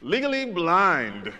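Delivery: deadpan, slow and put out; dry host aside. Retold or imitated. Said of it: "he goes".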